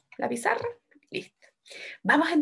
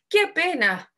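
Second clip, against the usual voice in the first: higher, mildly hammed-up "what a pity"; triste exclamación; 6 semitones higher, 4 dB louder, slower than usual. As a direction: exclaim with acted dismay. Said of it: "se nota esa emoción". (exclamación de pena, un poco actuada)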